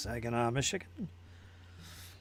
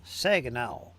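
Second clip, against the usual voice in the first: put-on Southern twang; southern accent; 3 semitones lower, 4 dB louder than usual. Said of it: "it's got a southern accent".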